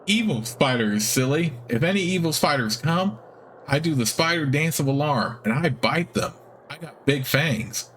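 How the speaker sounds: put-on high, childlike guard spider; friendly spider voice. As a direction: innocent spider proudly explaining. Game master voices guard spider.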